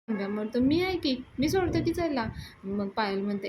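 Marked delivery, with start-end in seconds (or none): 0.6-2.2 higher, keen eager offer; a friend keenly offering a lift, eager. Retold or imitated. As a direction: jump in eagerly to volunteer. Namya eagerly offers to drop her.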